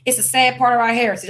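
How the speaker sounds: quick, sneering parroting of their apology; mocking quote. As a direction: rattle it off like an empty corporate line. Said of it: "So they go".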